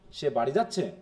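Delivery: low start, swing up on যাচ্ছে; question intonation. Shown as a demonstration. Teacher repeating the question version, question tune on যাচ্ছে. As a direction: ask it through the tune on যাচ্ছে alone. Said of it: "এটা প্রশ্ন".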